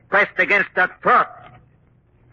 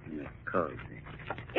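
hushed eerie reveal; 12 semitones lower, 15 dB quieter, much slower than usual. Acted.

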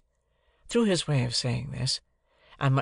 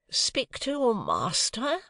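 haughty lady; 10 semitones higher, much slower than usual. A narrator's reading. Missus Pocket voiced in story.

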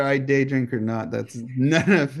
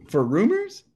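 high rising incredulous question; mock disbelief; 7 semitones higher than usual. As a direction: pitch up sharply on rumors, scoffing. Mock disbelief at upset fans.

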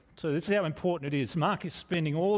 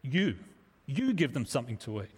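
"You" landed alone, then stressed again; emphatic YOU; 3 semitones lower than usual. Shown as a demonstration. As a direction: punch the word "you" and pause after it. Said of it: "it's, it's emphatic".

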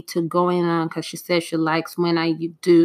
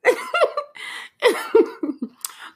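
a long high giggle that falls away; long high laughter. Real, not acted. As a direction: keep giggling high, then let it fade. Laughs at funny clip.

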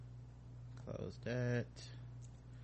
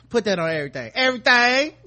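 imitating the caller's line through laughter, louder and higher; laughing quote; 9 semitones higher, 10 dB louder than usual. Host replaying the prank call line, laughing. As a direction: repeat the punchline while cracking up. Repeating the clip's punchline, laughing.

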